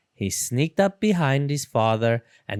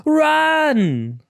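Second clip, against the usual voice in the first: high, loud panicked cry; panicked shout; 14 semitones higher, 5 dB louder than usual. A narrator's reading. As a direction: yell to flee. Friends flee the ghost.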